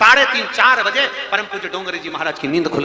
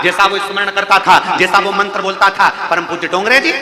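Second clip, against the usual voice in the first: divine command; 4 semitones higher, 8 dB louder than usual. Acted. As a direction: order it like a goddess. Durga's command in the vision. (देवी का ज़ोरदार धीमा आदेश)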